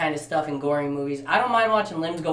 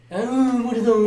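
high, loud, laughing exclamation; mock amazement; 6 semitones higher, 4 dB louder than usual. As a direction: exclaim it in hammed-up shock. Hammed-up film quote, others laughing.

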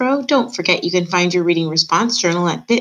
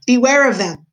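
higher-pitched warning shout, mildly done; 6 semitones higher, 4 dB louder than usual. A narrator's reading. Gregory warning Meg about the rats, shouted. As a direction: raise the voice in warning. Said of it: "shouted Gregory".

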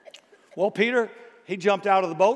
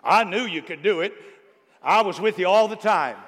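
fawning crowd; 4 dB louder than usual. Acted. Mocking the fickle crowd.

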